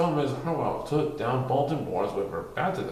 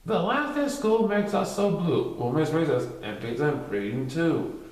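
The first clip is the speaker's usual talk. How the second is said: poem recital. Acted. Poem read in story.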